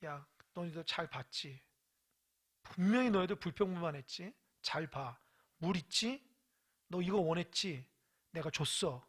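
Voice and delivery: restrained low reprimand in God's role; scolding. Acted. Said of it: "하나님 야단쳐요".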